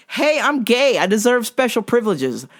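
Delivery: high, singsong announcing voice; hammed-up, high-pitched declaration; mock soapbox proclamation. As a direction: proclaim it as a mocking caricature. Mocks soapbox proclaimers in America.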